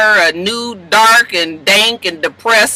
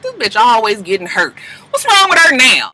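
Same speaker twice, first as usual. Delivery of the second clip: exasperated; 4 semitones higher than usual. Real, not acted. Reacting to Laurel hurt.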